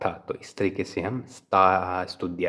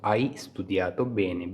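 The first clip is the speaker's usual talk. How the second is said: slow model repeat; much slower than usual. Shown as a demonstration. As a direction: say it again slowly for learners. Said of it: "bene हो गया अच्छे से".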